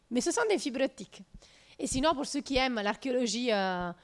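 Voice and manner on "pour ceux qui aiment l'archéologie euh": ordinary talk, nothing marked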